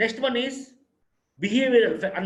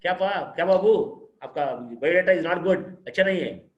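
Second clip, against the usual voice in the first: mocking panel comment; 3 semitones higher, 5 dB louder, slower than usual. Shown as a demonstration. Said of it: "comment करेगा".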